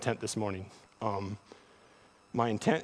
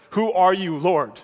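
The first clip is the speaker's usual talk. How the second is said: put-on louder, naive childlike question; like a kid asking dad; 6 semitones higher, 8 dB louder than usual. Paul asking the voice like a kid asks his dad, louder. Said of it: "comparable to the kid at the grocery store".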